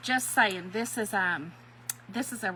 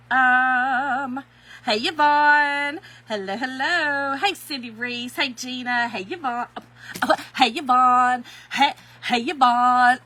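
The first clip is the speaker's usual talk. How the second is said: calling out; 6 dB louder, slower than usual. Real, not acted. Greeting viewers, calling out.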